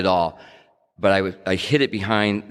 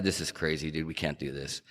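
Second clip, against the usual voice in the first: nervous whisper; 4 semitones lower, 13 dB quieter than usual. Retold or imitated.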